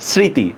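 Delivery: "স্মৃতি" as sri-ti with falling end; silent mo-phola. Shown as a demonstration. Teacher gives learners the answer, "স্মৃতি" with silent ম. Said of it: "এগুলার কোনো উচ্চারণ হয় না".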